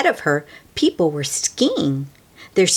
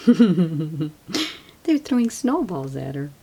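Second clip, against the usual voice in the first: laughing; slower than usual. Real, not acted. Laughing aside to listeners.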